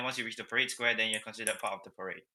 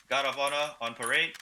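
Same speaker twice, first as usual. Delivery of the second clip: drill command; 2 semitones higher than usual. Shown as a demonstration. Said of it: "So let's try this".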